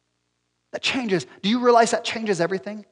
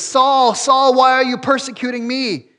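calling out; 4 semitones higher, 3 dB louder than usual. Acted. Re-enacting the voice calling Saul.

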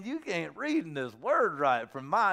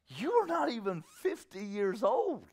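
slow, drawn-out disbelief; scoffing, slow-motion challenge; incredulous objection; 3 semitones higher than usual. Acted. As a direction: stretch the words in mock astonishment. Acted incredulous Jews.

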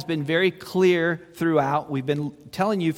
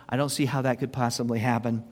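slurping a drink mid-sentence; sipping hot tea; 4 semitones lower than usual. Real, not acted. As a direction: talk right after a sip of tea. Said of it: "Excuse me for slurping there".

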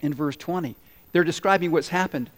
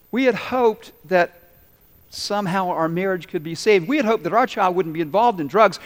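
pleading disappointment; 3 semitones higher, 4 dB louder than usual. Retold or imitated. Preacher voicing listeners' broken hopes, anguished. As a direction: plead each lost hope aloud. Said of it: "things didn't work out the way you hoped".

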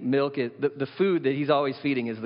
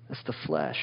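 much lower, murmured verdict; low aside; 8 semitones lower, 4 dB quieter than usual. Shown as a demonstration. Preacher to congregation, low and heavy. Repeated for emphasis.

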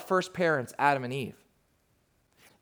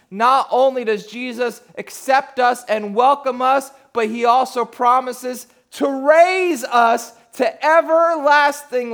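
impassioned preaching; 7 semitones higher, 8 dB louder than usual. Acted. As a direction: preach it at full force to the crowd. Preaches at full force.

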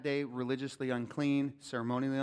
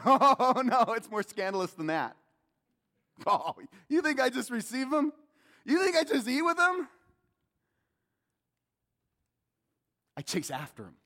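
lightly voiced Jesus; 8 semitones higher, 5 dB louder than usual. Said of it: "And Jesus goes".

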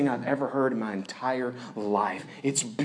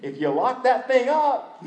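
laughing aside; 11 semitones higher, 5 dB louder than usual. Retold or imitated. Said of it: "And I'm like".

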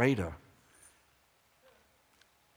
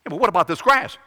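louder fretful sheep asking; worried sheep; 8 semitones higher, 11 dB louder, faster than usual. Acted. Sheep questioning David, louder and fretful. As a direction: whine about tomorrow like a sheep.

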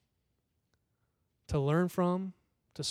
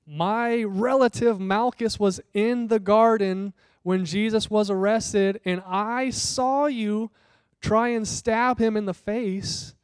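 higher, louder accusation, slowed; accusing servant; 4 semitones higher, 4 dB louder, slower than usual. Acted. Servant accuses Peter by the fire, higher and louder. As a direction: point the finger: I saw you. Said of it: "They're like".

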